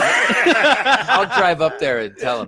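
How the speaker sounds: laughing mock threat.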